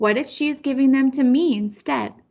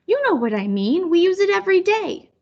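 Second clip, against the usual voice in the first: annoyed; 7 semitones higher than usual. Acted. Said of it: "Grandma is annoyed".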